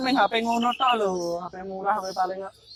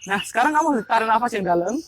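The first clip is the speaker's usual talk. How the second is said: hypnotic breathing guidance. Acted. Hypnotist leads breathing induction.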